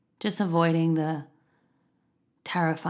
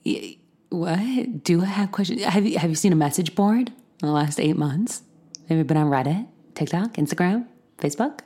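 louder, incredulous rant; exasperated retort; 4 dB louder than usual. Retold or imitated. What she wanted to tell the doctor, an exasperated rant. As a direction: fire back questions in disbelief. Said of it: "I wanted to be like".

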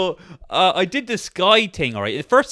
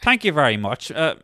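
put-on lightly done Northern Irish accent, polite; a hint of a Northern Irish office guy on the phone. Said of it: "Northern Irish guy's like".

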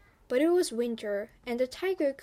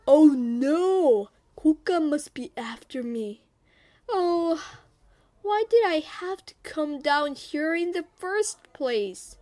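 loud, hammed-up cry of dread, then high lament; panicked tiger; 4 semitones higher, 6 dB louder than usual. Tiger sees something coming after him, acted panic. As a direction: wail in alarm as a frightened tiger.

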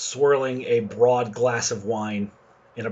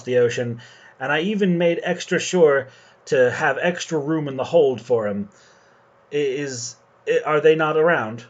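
slightly raised, fussy captain voice; a hint of the genteel captain; lightly voiced fussy captain; foppish captain; 4 semitones higher than usual. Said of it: "he nods and says".

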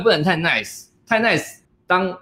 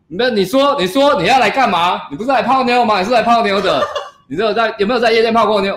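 higher and pushier, goading him on; fierce prodding; 6 semitones higher than usual. Retold or imitated. The girl goading the shy coach, higher and pushy. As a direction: needle him like a drinking dare. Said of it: "他为什么那么凶啊？".

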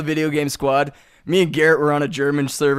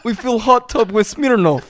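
put-on louder comic Russian accent; 5 semitones higher, 3 dB louder than usual. Playing a Russian partier for friends, Russian accent. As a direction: boast in a mock Russian accent. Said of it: "he actually can do a fucking Russian accent".

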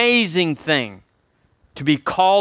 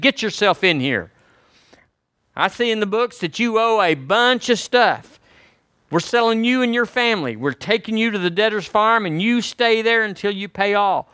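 a raised, commanding master's voice; stern master; 6 semitones higher than usual. Retold or imitated. Preacher voicing the master sentencing his servant, raised and stern. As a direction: lay down the sentence like a harsh lord. Master confronts debtor in parable.

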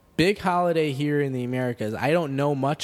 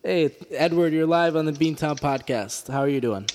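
louder, higher on-air host greeting; radio host welcome; 3 semitones higher, 4 dB louder than usual. Real, not acted. Host welcomes caller Edward live on air, bright announcer voice.

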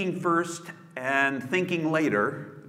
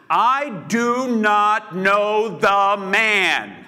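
much higher, louder, very slow swearing; cursing oath; 8 semitones higher, 8 dB louder, much slower than usual. Acted. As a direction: spit it out as a furious oath. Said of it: "Then he began to curse".

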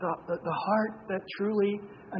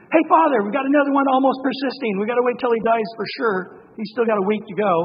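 higher and louder, a hammed-up busybody calling up to the Father; mock heavenly bystander; 4 semitones higher, 6 dB louder than usual. Preacher mocking heaven waiting on a dying sinner, hammed-up and high. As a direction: play a fussy onlooker in heaven, a bit over the top.

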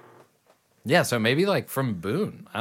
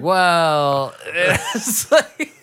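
loud, drawn-out Southern drawl; hammed-up Southern caller; 7 semitones higher, 6 dB louder, much slower than usual. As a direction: stretch it out in a thick Southern drawl. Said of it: "the drawl is not as thick as I'm saying it".

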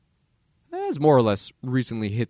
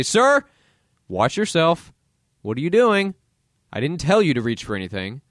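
stern cop warning; 4 semitones higher than usual. Retold or imitated.

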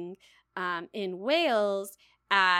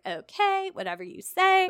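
breezy agreement; 8 semitones higher, 5 dB louder than usual. Retold or imitated. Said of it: "She's like".

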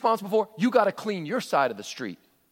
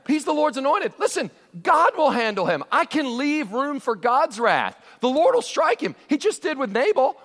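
higher, louder, earnest pleading; David speaking; 6 semitones higher, 4 dB louder than usual. Retold or imitated. David restraining Abishai from killing Saul, raised and earnest. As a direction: urge your men to leave it to God. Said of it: "He goes".

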